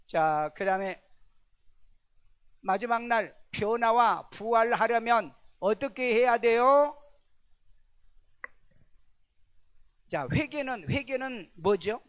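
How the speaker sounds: loud, high, building to a ringing question; full-voiced preacher cry; forceful preaching. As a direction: drive the point home to the congregation.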